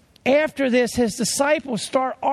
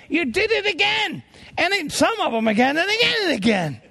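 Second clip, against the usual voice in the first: teasing high exclamation; 7 semitones higher than usual. Acted. Teasing mothers, rising.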